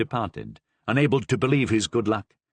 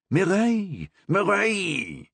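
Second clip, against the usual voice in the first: calling to order; 8 semitones higher, slower than usual. A narrator's reading. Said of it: "trying to call his wife to order".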